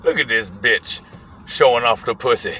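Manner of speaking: put-on low grumbled old-man remark; imitated old man. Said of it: "motherfucker with the one eye goes".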